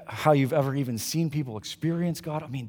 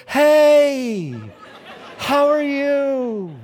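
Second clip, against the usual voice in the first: a lovestruck high-pitched phone greeting, slowed; high sweet voice; 9 semitones higher, 5 dB louder, much slower than usual. Retold or imitated. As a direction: jump way up high and sweet for the girlfriend. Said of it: "his voice goes up multiple octaves".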